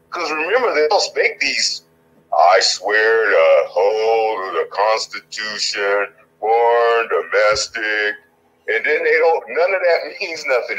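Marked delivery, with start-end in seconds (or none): 2.3-8.2 slow, solemn mock oath of office. Politician reciting the oath, slow mock-solemn. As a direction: drag out the oath like a hollow ritual.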